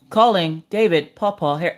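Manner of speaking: slow, measured assistant announcing a call; a hint of automated voice; lightly voiced assistant. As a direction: announce it slowly, like a device. Acting out Echo placing wrong call.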